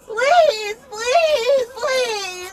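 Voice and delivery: crying. Real, not acted. Crying while being hurt.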